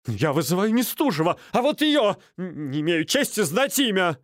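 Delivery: high, aggrieved; indignant complaint. Acted. Стольский appealing to Минц, high and aggrieved. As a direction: appeal to the host, offended.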